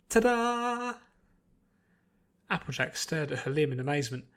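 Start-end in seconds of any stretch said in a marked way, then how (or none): 0.1-0.9 high, loud triumphant reveal; showy ta-da. A narrator's reading. Pinkie revealing the healed arm, triumphant. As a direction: present it like a magic trick.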